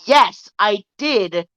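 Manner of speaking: slow, mildly frustrated retelling; frustrated customer. Retold or imitated. Retold customer answers the store worker, mildly frustrated. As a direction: spell it out slowly, a touch fed up. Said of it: "she's getting frustrated".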